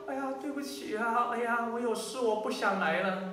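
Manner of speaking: softened, put-on apology; mock apologetic excuse. Preacher mimics a member cancelling worship duty, mock apologetic. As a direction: wheedle out of it in a mock voice.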